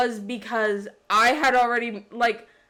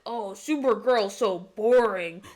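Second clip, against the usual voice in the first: mocking edgy twelve-year-old. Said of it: "it sounds like an edgy twelve-year-old".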